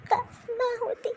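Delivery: soft, tearful wish for her mother; grieving and softly tearful; tearful longing. Acted. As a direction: wish it quietly through tears. Grieving daughter longs for dead mother.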